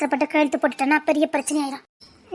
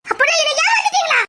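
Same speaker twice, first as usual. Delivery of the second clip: higher, pained accusing question; hurt accusation; 10 semitones higher than usual. Acted. Cheated woman accusing in-laws, hurt and angry. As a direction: demand it, wounded and angry.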